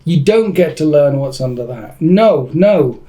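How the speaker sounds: emphatic, pretend-stern refusal; mock angry. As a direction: lay down the terms to a rival. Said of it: "That was quite angry".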